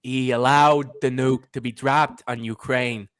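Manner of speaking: mock political pronouncement; imitated politician. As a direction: hold forth like a boastful president. Impersonating a former president.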